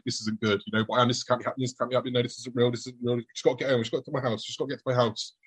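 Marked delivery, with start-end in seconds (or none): 0.1-0.6 softer, lower self-talk; babbling to himself. Retold or imitated. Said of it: "I'm babbling to myself". 0.9-5.4 soft, repetitive self-reassurance; babbling to himself. Retold or imitated. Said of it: "I'm babbling to myself".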